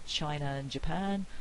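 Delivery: "China and Japan" with a catch between "China" and "and"; glottal stop. Shown as a demonstration. Lecturer showing the option without R, glottal stop. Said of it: "I can do it with the glottal stop".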